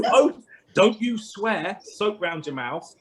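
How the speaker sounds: imitating a nagging mum; scolding mum.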